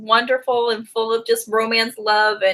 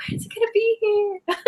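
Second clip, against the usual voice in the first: impatient waiting; 10 semitones higher, 5 dB quieter than usual. Retold or imitated.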